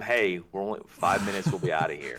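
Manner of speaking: mock comforting coach. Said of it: "not comforting him".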